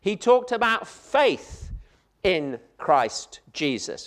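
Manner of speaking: slow, weighty stress on "talked"; "talked" and "in" leaned on; slow emphatic. Shown as a demonstration. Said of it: "every word counts here".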